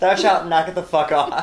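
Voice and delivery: laughing mock commandment; hammed-up scripture decree; biblical voice.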